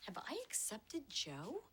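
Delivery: unvoiced, slow self-doubting whisper. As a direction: breathe the question to yourself.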